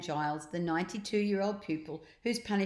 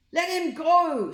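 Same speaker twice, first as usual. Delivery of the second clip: high, loud, slow group shout; teachers shouting; 11 semitones higher, 10 dB louder, slower than usual. A narrator's reading. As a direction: demand it together as the teachers. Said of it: "shouted the teachers gathered".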